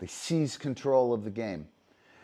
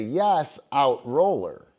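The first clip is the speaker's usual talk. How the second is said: bright, loud call to the dog; encouraging marker call; 3 semitones higher, 7 dB louder, slower than usual. Shown as a demonstration. Dog trainer to dog, a sharp marker call. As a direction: praise the dog as it picks up the disc. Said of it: "hopefully you say".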